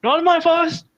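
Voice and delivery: high, loud call from across the grove; loud, high-pitched defiant yell; distant guardian's shout. Acted. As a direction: holler it out as a far-off guardian. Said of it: "you hear a voice come from somewhere".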